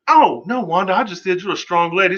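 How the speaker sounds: high, flustered backpedal; high nervous Geraldine backpedal; mock panicked backpedal. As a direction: scramble to take it back. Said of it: "Geraldine's like".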